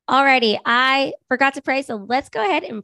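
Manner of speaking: hoarse from a cold; raspy sick voice. Real, not acted. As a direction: talk through a sore throat, raspy. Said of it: "You sound, like, raspy and sick".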